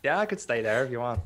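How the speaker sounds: easy, offhand Irish voice; Irish accent. Shown as a demonstration. Friend offers to keep talking Irish, light accent. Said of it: "he becomes Irish".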